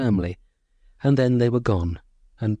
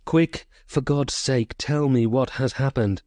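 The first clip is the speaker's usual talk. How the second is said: raised, slow and pleading; frantic plea, raised a little; desperate cry; 3 semitones higher than usual. Acted. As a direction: beg for the truth in anguish. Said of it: "crying out".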